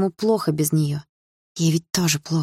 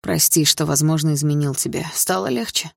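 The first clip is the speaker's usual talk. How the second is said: smirking. Acted. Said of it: "ухмыльнулся Лёха".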